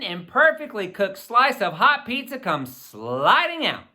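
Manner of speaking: put-on lively read-aloud to children; story narration. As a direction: tell the chapter like a storyteller for kids. Reads the chapter aloud.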